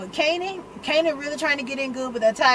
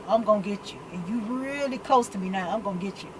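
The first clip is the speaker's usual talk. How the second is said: soft, low-pitched mock menace; low threat; 3 semitones lower, 5 dB quieter than usual. Imagined threat during the handshake, low and quiet. Silent threat voiced from a look.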